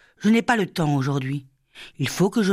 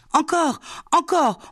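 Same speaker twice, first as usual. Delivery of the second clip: much higher, slow, gleeful begging; excited plea; 11 semitones higher than usual. Acted. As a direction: beg for more, thrilled. Children delighted by the game.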